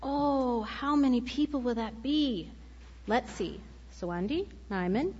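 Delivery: put-on lively read-aloud for children with character voices; story narration. A narrator's reading. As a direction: tell it to the kids with voices. Reads picture book aloud.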